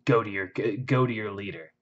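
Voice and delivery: measured, deliberate menace with pauses; badass threat. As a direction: deliver a cool, unhurried threat. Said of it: "it's just so badass".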